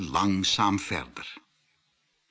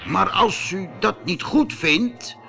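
timid plea; 6 semitones higher than usual. A narrator's reading. Merchant pleads with monster.

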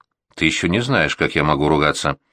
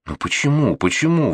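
rising indignant protest; why, why, he protests indignantly; 7 semitones higher than usual. Acted. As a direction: push back, offended and rising. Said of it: "Возмутился я".

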